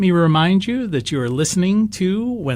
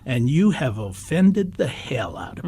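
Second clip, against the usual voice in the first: deep Southern voice. Retold or imitated. Retelling a board member rebuking a racist joke in a light Southern accent. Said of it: "in a real deep Southern voice".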